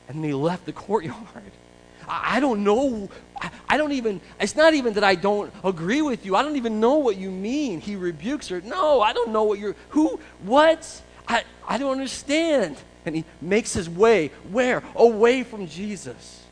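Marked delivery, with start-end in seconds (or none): 2.1-12.8 panicked denial. Acted. Peter panicking at the accusation.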